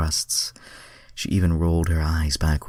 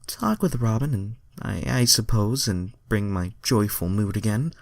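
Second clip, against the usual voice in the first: lighter Starfire voice; 5 semitones higher than usual. Acted. Reader voices Starfire's dialogue.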